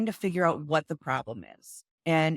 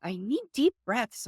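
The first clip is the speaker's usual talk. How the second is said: a bit high, falling little-kid voice, lightly played; imitating her toddler again; 6 semitones higher than usual. Mom repeating her toddler's request, lightly voiced child falling. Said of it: "she's just like".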